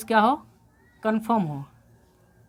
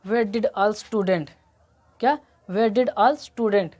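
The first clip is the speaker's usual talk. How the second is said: slow model sentence; much slower than usual. Shown as a demonstration. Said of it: "जैसे मैंने कहा".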